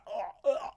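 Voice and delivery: imitated glugging noise. Host mimics her downing pints, imitated glugging noise. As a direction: imitate gulping a drink to the bottom. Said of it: "holding the bottom of the glass, like".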